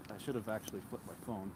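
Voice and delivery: huffing and puffing while walking; winded, talking between breaths. Real, not acted. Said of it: "I'm huffing and puffing".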